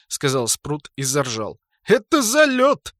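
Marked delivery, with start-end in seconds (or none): 1.8-2.9 loud high mock shout. Sprut laughing loudly.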